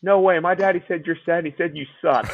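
a hint of a blunt little kid; little girl. Imitating the officer's daughter telling on daddy, childlike. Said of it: "his daughter is, like, four to six".

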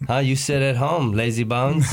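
teasing takeout lady, light mock Chinese accent; a hint of Chinese-accent caricature; imitated Chinese accent. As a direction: nag the customer in a put-on Chinese accent. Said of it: "she's like".

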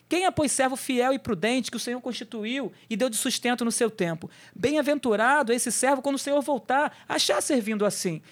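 measured, solemn Bible reading; scripture reading. Acted. Pastor reading Matthew aloud to listeners, solemn and measured.

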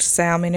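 salmon with an audible L, SAL-mun; L pronounced in salmon. Retold or imitated. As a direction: sound the L in "salmon". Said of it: "I stopped saying it with an L".

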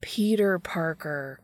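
whispered, slow, weary correction; exasperated groan. A narrator's reading. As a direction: sigh it out like he can't believe it. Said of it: "Dean groans".

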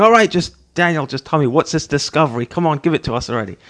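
mock impatient demand, quickening at the end; impatient listener. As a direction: hurry me up like an eager viewer. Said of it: "you're standing there going".

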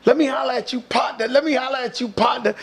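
imitating guys hollering partner; calling out. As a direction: call after him across the crowd. Dudes calling out in stadium.

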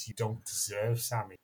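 lightly put-on Paul Hollywood accent, dropping at the end; a hint of Paul Hollywood. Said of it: "that's my Paul Hollywood impression".

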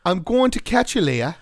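a hammed-up old British accent. Taunting a rival in a mock old British accent. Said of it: "that was a really old British accent".

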